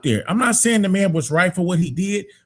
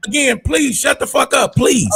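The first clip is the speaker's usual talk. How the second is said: angry shout; 4 semitones higher, slower than usual. Real, not acted. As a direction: yell at him to stop. Telling him to shut up.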